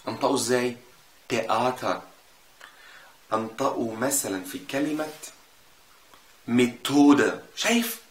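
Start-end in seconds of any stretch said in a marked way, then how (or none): 1.3-2.0 تياتر begun with plain T, H silent; German TH as T. Shown as a demonstration. Teacher giving an example, plain T opening تياتر. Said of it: "بنطقه وكأنه تاء". 6.5-7.4 ميثودة with a hard, louder T in the middle; German TH as T. Shown as a demonstration. Teacher giving an example, hard T inside ميثودة. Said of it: "هيفضل طول عمره تاء مش".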